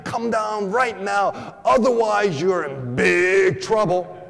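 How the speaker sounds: a hint of a strict father ordering the kid down; slow mock-stern yell of a strict dad; stern father shout. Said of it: "the loving father more strict than he actually is".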